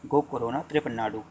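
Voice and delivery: "गो कोरोना त्रिपन्नाडु" run together quickly in one breath. Shown as a demonstration. Teacher shows students the mnemonic said quickly. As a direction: rattle "गो कोरोना त्रिपन्नाडु" off fast. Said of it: "अगर जल्दी से बोलेंगे तो कैसा बोलेंगे".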